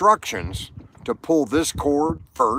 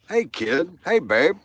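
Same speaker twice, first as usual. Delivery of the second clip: put-on higher, breezy "Hey, kid"; old-timer greeting; 4 semitones higher than usual. Old man calling younger people kid, lightly higher. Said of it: "I call people kid all the time".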